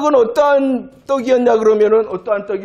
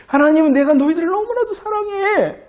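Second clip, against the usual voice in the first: higher, lightly voiced loving God; tender declaration; 8 semitones higher than usual. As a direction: say it like a fond promise. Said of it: "이렇게 말씀하시는데".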